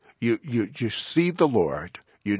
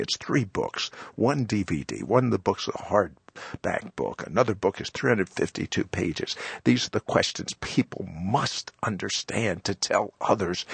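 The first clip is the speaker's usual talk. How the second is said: product pitch. Acted. Host pitches course.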